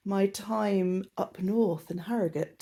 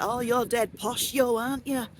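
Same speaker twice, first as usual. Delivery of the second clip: imitated northern English accent; 3 semitones higher than usual. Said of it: "had the piss taken out of my accent".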